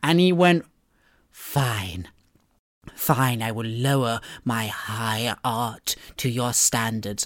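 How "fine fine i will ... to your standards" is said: low, slow, deliberate author voice. Imitating the author agreeing to write an action scene: imitating Lovecraft. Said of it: "I'm assuming this is how he talks".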